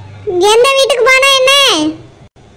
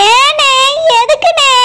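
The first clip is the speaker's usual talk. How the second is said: crying in shock; slower than usual. Acted. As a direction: ask through a sudden sob. Wife hears husband is detained.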